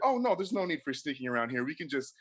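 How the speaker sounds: soft, hushed, kindly check-in voice; gentle Jesus. Acted. Jesus greeting the line at heaven's gate, soft and kind. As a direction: welcome each soul gently at the gate.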